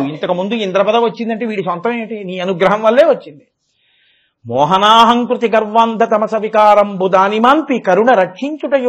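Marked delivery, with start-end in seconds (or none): 4.5-8.9 sing-song Telugu verse. Acted. Recites verse again.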